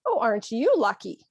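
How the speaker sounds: understated sarcastic congratulation. Shown as a demonstration. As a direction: stress "you" with mild mockery. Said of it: "that's sarcasm".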